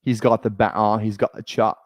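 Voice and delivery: mock British slang; lightly faked British accent; put-on UK accent. Streamer imitating Love Island contestants, UK accent. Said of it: "That's how they say banter".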